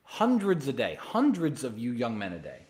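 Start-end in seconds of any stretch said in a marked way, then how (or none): none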